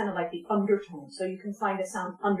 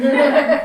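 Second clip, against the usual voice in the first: short creaky laugh-like fry sound; creaky vocal fry laugh; 5 semitones higher, 12 dB louder than usual. Shown as a demonstration. Teacher shows vocal fry at a sentence end, creaking. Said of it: "when you end your sentence like that".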